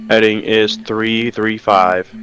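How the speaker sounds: calling headings over engines. Pretend. Pilot radio call to wingman.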